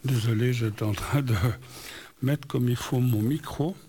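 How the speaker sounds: talking with a numb, swollen mouth. Real, not acted. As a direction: speak as if just back from the dentist. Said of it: "si j'ai une drôle de voix ce soir".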